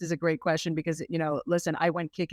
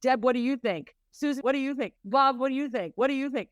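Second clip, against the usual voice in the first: higher, eager asking round the group; asking everyone; 5 semitones higher than usual. Retold or imitated. Women ruling by committee, higher mock eager asking round. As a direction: poll every friend for their opinion. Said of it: "we try to rule by committee".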